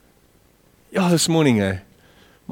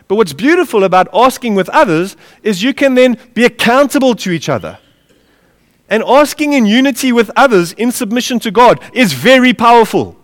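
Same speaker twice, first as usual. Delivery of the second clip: raised, higher pulpit voice; emphatic preaching; 6 semitones higher, 4 dB louder than usual. Real, not acted. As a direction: drive the point home to the congregation. Preacher back at full voice.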